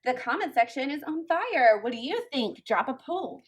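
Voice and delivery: hammed-up excited creator voice; mocking gushing creator. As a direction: parody her delight at the drama. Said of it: "saying things like".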